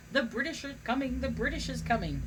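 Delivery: half-hearted town-crier shout; retold shout. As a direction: call out a warning like a rider. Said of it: "rode around shouting".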